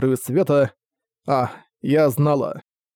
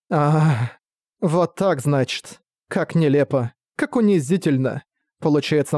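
bitter undead queen. Acted. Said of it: "излучаемый ею гнев был слишком велик".

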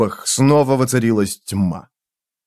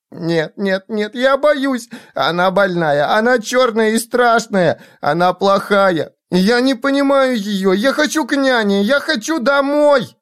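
put-on very high, panicky child voice; shrieking frightened child; 9 semitones higher than usual. A narrator's reading. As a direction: build to a child's terrified cry. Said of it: "Дитя вскрикивало и тряслось".

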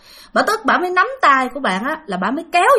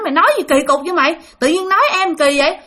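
quick, higher-pitched mild rebuke; retold scolding; 5 semitones higher, faster than usual. Aunt scolds her niece for insulting the visitor, lightly acted rebuke. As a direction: tell her off as an exasperated aunt. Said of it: "là cũng đánh vô người chị".

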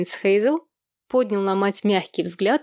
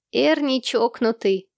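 proclaiming; 3 semitones higher, slower than usual. Acted. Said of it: "провозгласил малыш Сэм".

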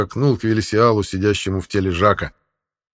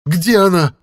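high, loud furious demon roar; thundering rage; 9 semitones higher, 5 dB louder than usual. A narrator's reading. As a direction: thunder it out in fury. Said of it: "прогремел Жак полным гнева голосом". (гневный рёв)

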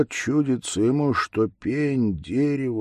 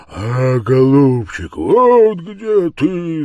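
louder, very slow roar on "вот где ты"; roaring bear; 6 semitones higher, 9 dB louder, slower than usual. Acted. The bear behind the tree roars the words back at grandpa. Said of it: "заревел медведь".

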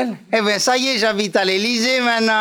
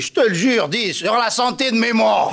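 put-on Pompidou with pied-noir accent. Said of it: "l'accent pied noir".

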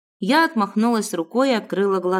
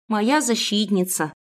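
tender. Acted. Girl strokes the monkey.

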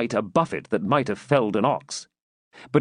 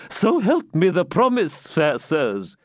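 put-on higher, alarmed old man protesting; alarmed plea; 6 semitones higher than usual. A narrator's reading. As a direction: beg in growing alarm. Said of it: "even more alarmed than before".

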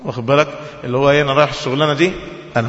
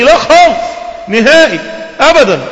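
high, loud protesting no; a loud, high insistent never; emphatic refusal; 10 semitones higher, 5 dB louder than usual. Acted. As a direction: swear you'll never ask again, loudly. Man swearing he wants nothing more.

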